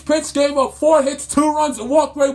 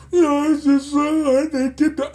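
wailing, blubbery whine as mockery; mock verge of tears; 2 semitones higher than usual. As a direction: mimic a crybaby four-year-old. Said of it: "sit there on the verge of tears".

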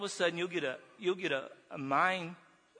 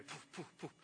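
imitated digging puffs; 13 dB quieter than usual. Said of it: "I just went faster. I was angry".

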